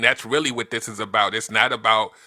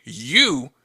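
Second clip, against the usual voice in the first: mock accusation; 7 semitones higher, slower than usual. Shown as a demonstration. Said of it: "once you say".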